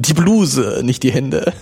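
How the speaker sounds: laughing. Real, not acted. Joke correction, laughing.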